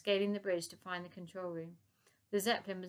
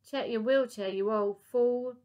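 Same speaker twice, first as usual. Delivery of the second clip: loud, slow gloat; gloating shout; 4 semitones higher, 9 dB louder, slower than usual. Acted. Lady Buckshot gloating at the professor, loud slow taunt. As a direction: savour the insult loudly.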